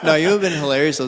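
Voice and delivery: ordinary delivery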